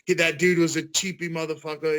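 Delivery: put-on lightly done British accent quote. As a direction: attempt your best British mate voice. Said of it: "in the best British accent I could ever give".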